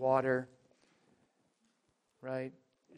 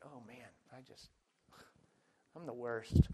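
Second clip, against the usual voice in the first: mock self-pity; 2 semitones lower, 5 dB quieter than usual.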